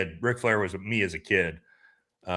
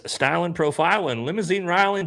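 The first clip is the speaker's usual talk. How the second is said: high, loud Ric Flair-style promo yell; hammed-up wrestler shout; Ric Flair quote; 11 semitones higher, 11 dB louder than usual. Reading Buff's chat quote, Ric Flair style.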